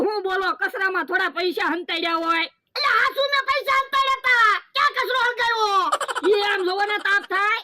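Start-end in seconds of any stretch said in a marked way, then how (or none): 2.8-7.6 higher, frantic yelling; panicked shout. Acted. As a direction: shout in a rush to save the cash. Rushes to save hidden cash.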